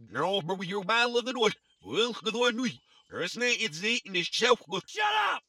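high-pitched, agitated shouting. Acted. Dad on the robot's recording, caught in a struggle, shouting. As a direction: shout in a high voice, climbing sharply at the end. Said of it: "Did you hear someone shouting".

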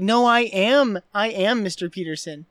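loud indignant scolding. Retold or imitated. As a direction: scold him like an offended boss. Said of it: "he's like".

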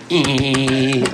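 high, loud sustained "eee"; long, piercing imitated steel note; imitated beginner's steel slide. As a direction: mimic a steel guitar squealing up high. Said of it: "like this, you know".

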